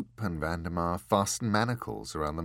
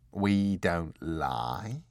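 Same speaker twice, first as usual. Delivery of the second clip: affronted; 3 semitones lower, much slower than usual. Acted.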